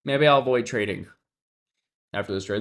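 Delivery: normal talking voice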